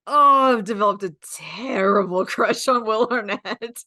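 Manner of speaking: giddy, breathless crush confession; swooning confession. Retold or imitated. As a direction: gush it like a smitten teen. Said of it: "I was just like".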